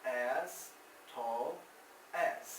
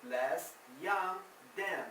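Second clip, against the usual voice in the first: slow model phrase; much slower than usual. Shown as a demonstration.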